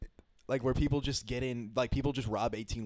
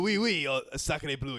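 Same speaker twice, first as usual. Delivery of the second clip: hammed-up French accent. Shown as a demonstration. Trying out a French dude for friends, French accent. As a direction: attempt a stock French guy. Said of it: "what does a French dude sound like".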